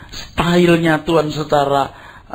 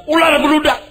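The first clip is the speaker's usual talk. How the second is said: much higher, louder "Ular beludak" hurled as a denunciation; thundering rebuke; 13 semitones higher, 4 dB louder than usual. Retold or imitated. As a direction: blast "Ular beludak" like a fiery prophet. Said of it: "Waktu Tuhan bilang".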